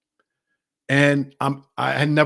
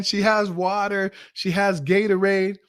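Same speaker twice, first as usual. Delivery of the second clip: ecstatic relief; 5 semitones higher than usual. Retold or imitated. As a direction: savour the joy of finding water, mildly acted. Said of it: "we were just ecstatic".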